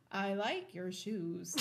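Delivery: slow flat synthetic speech; Stephen Hawking voice. Retold or imitated. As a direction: talk like a speech computer. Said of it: "I'd put it on the Stephen Hawking's voice".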